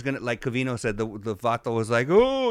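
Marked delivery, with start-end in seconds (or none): 2.1-2.5 high, loud startled "oh"; hammed-up fright, pitched way up; mock scared. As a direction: yelp as if walked in on, imitating. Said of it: "everybody looks at you all scared and shit".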